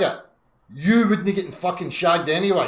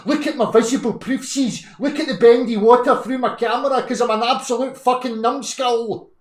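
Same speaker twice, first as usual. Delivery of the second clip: mock whiny flat-earther, pitched higher; mocking imitation; 4 semitones higher than usual. Streamer mocking a flat-earther rival, lightly higher mock voice. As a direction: lampoon his rival's proud claims, a bit higher. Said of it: "saying the same thing and going".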